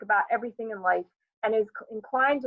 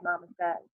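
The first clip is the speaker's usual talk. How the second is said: ordinary delivery, nothing marked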